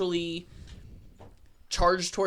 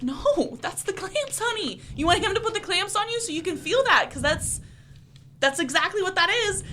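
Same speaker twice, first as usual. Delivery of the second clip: much higher, laughing through the words; laughing tease; 11 semitones higher than usual. Retold or imitated. Piercer laughing at a client's fear of the clamps, high and giggly. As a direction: giggle it out, teasing the nervous client.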